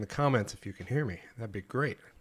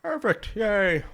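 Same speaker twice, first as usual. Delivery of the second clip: excited; 10 semitones higher, 4 dB louder, slower than usual. Real, not acted. Stream finally works.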